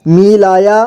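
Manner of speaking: मिलाया as मि-ला-या; syllable by syllable. Shown as a demonstration. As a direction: sound out मिलाया in three parts. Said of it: "एक ही बार में पढ़ेंगे".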